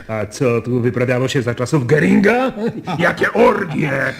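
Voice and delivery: amused, savoring the scandal; laughing. Acted. Laughing recollection of Göring era. (ze śmiechem, rozbawiony)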